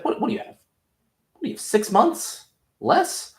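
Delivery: very high squeaky mock concern; mocking falsetto. Homelander taunts Butcher about his cancer, squeaky mock pity. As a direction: needle him in a piping high voice.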